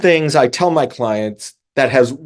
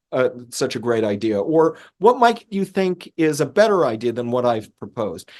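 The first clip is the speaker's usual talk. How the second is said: curious questioning; 2 semitones higher than usual. Retold or imitated. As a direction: ask as if you truly want to know. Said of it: "A truly curious question".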